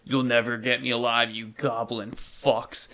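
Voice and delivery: lightly voiced hero's taunt; defiant battle cry. Darwin runs at the goblins, defiant battle cry. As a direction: stretch out the last two words defiantly. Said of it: "once again says".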